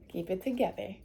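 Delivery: murmured to herself to stay calm; quiet self-talk. Real, not acted.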